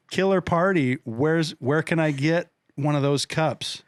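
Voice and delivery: lightly put-on American party-goer; casual American accent for someone to copy. Shown as a demonstration. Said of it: "say this as American".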